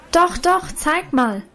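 high, eager coaxing call. A narrator's reading. Schoolgirl Lina urging the girl to show her dress, eager. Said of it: "rief nun aber auch schon Lina".

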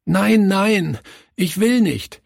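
put-on high, pleading sob-talk of a boy; a hint of a sobbing boy refusing to move house; sobbing child. A narrator's reading. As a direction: beg through tears, high and small. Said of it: "schluchzte er".

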